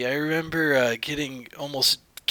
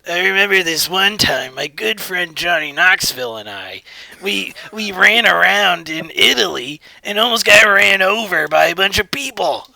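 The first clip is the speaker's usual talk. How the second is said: loud; 3 semitones higher, 5 dB louder than usual. Pretend. S0 as Steve-O, loud.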